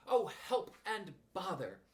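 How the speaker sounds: drawn-out, high plaintive wail; slow despairing cry. Acted. Stuck Pooh wails slowly in dismay. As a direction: drag it out in dismay.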